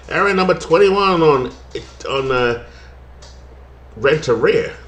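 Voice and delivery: light put-on twang on the game call; twangy play-by-play. Broadcaster back to his twang for the play-by-play. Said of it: "I can't do it until I twang it again".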